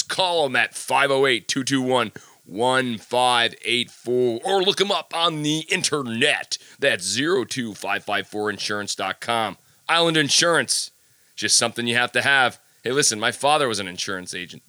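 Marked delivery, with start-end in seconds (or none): 0.0-4.4 light radio announcer read of the phone number. Shown as a demonstration. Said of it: "I'm gonna do it in my radio voice". 4.4-12.6 radio voice. Shown as a demonstration. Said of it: "I'm gonna do it in my radio voice".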